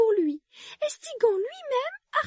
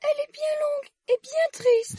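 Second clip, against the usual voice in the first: sighing; 4 semitones higher than usual. A narrator's reading. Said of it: "en soupirant".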